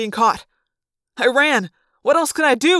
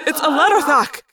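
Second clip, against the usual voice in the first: yelled; 5 semitones higher than usual. A narrator's reading. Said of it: "Axe yelled".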